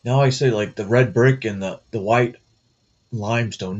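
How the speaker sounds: talking with tongue held; words slurred by a held tongue; holding tongue with fingers. Real, not acted. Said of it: "I'm trying to talk and my tongue's in the way".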